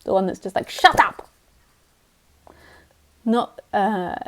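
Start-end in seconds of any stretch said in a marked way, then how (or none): 0.7-1.3 a louder, higher mock snap; a mild mock grumpy bark; grumpy Yuji Krishnamurti. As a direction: play the grumpy old teacher, half joking. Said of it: "the grumpy Yuji Krishnamurti".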